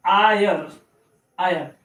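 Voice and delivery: आयर said alone as eye-er; YRE read as ire. Shown as a demonstration. Teacher showing how YRE is read, isolated eye-er. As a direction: repeat आयर as eye-er, falling. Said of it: "तब इसको आयर पढ़ा जाएगा".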